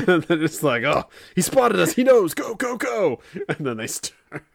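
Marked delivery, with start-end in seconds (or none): 0.8-3.2 high, loud, frantic warning; mock panic at being spotted; panicked alarm. Criminal warning his crew in mock panic.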